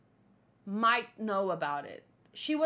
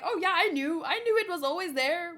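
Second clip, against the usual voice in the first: fake nonchalance; 6 semitones higher, 4 dB louder than usual. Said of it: "I just pretended like".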